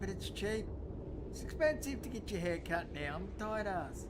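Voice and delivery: retelling his own reply. Retold or imitated. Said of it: "I said".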